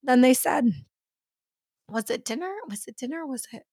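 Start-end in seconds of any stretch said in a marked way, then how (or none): 1.9-3.6 hushed asking. Retold or imitated. Quiet mock questioning.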